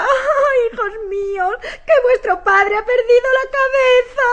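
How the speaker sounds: theatrical wailing dismay; upset lament. Acted. Wife bewailing to her children that father lost his head, upset. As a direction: lament to the heavens, drawing out the cries. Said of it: "no te pongas así".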